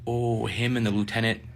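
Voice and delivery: soft, sinking repeat of the news; hushed disbelief at being summoned; dismayed echo. Retold or imitated. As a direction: echo it back quietly, realizing you're in trouble. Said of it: "And I was like".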